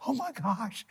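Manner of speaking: high, hushed shock; retold stunned reaction. Players hearing the private note, mimicked in hushed shock. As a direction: imitate a stunned room, voice lifted but small.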